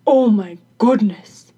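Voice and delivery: loud exclamation in a put-on voice; carpenter's exclamation. A narrator's reading. Carpenter hears crone's request, loud startled exclamation. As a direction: burst out loudly as the carpenter. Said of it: "exclaimed the carpenter".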